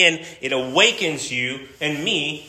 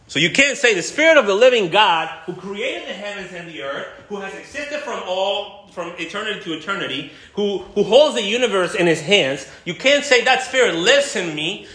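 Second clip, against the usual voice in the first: rising preacher's cry; 6 semitones higher than usual. Acted. Preacher building to a peak.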